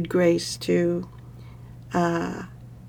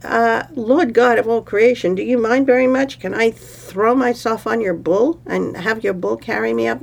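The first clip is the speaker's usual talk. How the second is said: mock polite anger; 3 semitones higher than usual. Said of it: "she was getting really angry".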